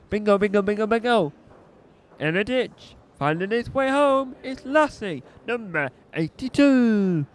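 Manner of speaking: sing-song bingo caller. Acted. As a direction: call the numbers like a bingo host. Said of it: "this is gonna be my bingo voice".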